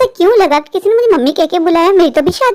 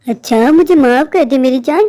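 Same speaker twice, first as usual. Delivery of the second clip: ghostly mother; 6 semitones lower than usual. Acted. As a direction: coax the child in a lower voice. (धीमी भूतिया माँ की आवाज़)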